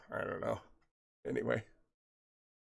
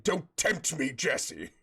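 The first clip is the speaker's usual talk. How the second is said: Gandalf-y; slower than usual. Acted. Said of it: "made that even more Gandalf-y".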